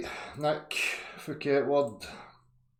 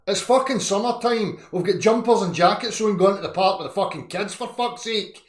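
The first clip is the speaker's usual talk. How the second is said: mock Scottish rant; 7 semitones higher, 6 dB louder than usual. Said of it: "'Cause Scottish people are going".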